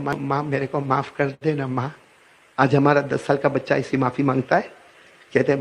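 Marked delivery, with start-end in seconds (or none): 0.0-1.9 pleading apology. Acted. Child begging forgiveness.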